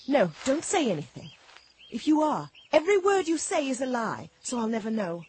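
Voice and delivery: loud, insistent rebuke; heated accusation. Acted. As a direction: cut them off and accuse them forcefully. Bitter accusation of the devil.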